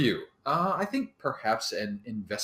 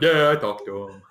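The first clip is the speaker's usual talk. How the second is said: bragging ogre; 6 semitones lower, 4 dB louder than usual. Acted. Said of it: "bragging to his friend".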